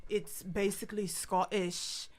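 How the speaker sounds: slow, lightly done Irish accent; measured, with a touch of Irish. Shown as a demonstration. Explaining Scottish roots to hosts, Irish accent. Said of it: "an Irish accent".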